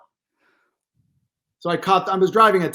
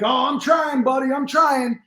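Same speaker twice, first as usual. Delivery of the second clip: lightly voiced higher, weary runner; imitating the runner; 7 semitones higher, slower than usual. Runner answering the stranger's compliment, lightly imitated and higher. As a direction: sigh it out like a tired jogger. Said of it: "He's like".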